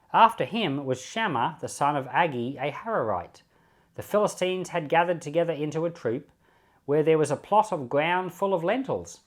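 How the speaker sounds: steady, measured Bible reading voice; scripture reading. Acted. Reading Samuel aloud to the class, measured scripture reading. Reads Second Samuel before commenting.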